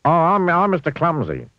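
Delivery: high, loud grinning stammer. A narrator's reading. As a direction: stammer it with a big grin.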